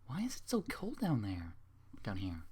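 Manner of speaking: lightly voiced shivering pony. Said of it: "She says to herself while shivering".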